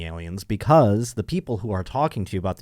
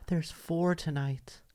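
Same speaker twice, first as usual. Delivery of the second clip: hushed neighbor; 5 semitones higher, 11 dB quieter, much slower than usual. Retold or imitated.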